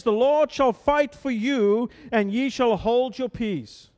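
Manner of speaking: slow, deliberate reading of the verse; slow scripture reading. Shown as a demonstration. Preacher reads verse fourteen to the congregation, slow and deliberate. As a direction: let every word of the scripture land slowly. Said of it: "Verse fourteen says".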